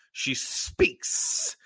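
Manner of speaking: slow, whispered hiss. Shown as a demonstration. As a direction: hiss the words out slowly. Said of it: "she speaks in hissing tones".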